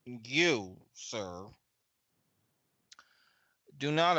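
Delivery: put-on strange, slow Southern accent with long pauses; halting, stretched-out Southern drawl; Frank Patterson. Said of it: "in this really strange, uh, Southern accent".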